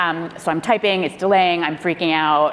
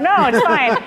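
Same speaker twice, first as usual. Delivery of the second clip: higher and louder, laughing through the panic; strained fake-fine laugh; 9 semitones higher, 5 dB louder than usual. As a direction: insist it's fine while clearly not fine. Panicked staffer insists all is well.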